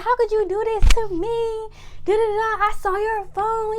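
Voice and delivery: high, hurt accusing tone; angry accusation. Retold or imitated. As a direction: confront him, wounded and furious. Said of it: "calling him all types of names".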